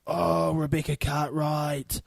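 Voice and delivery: drawn-out, excited realisation; slow, delighted "oh" of remembering; delighted recollection. Real, not acted. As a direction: stretch it out as the name comes back to you. Suddenly remembers a soap star.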